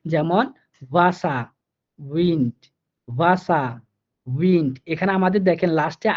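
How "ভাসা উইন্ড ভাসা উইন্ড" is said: ভাসা and উইন্ড starting with a ভ-like V sound; German Wasser and Wind with a v sound; German W as Bangla ভ. Shown as a demonstration. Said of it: "ভ এর মতো করে এই ভেটা উচ্চারিত হবে".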